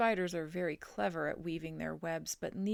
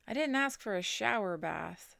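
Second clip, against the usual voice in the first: louder indignant comeback; drenched farmer's retort; dry retort; 3 semitones higher, 7 dB louder than usual. A narrator's reading. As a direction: snap back at the farmhand. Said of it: "said Mister Zuckerman".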